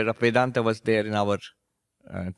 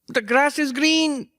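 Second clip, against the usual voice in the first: put-on much higher, slow, squeaky old monk; high-pitched old teacher; 13 semitones higher, slower than usual. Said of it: "He had a high-pitched voice".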